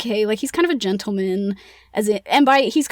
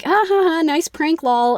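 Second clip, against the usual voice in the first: mock scoffing laugh; 7 semitones higher, 3 dB louder than usual. Managers mocking the haunting claim.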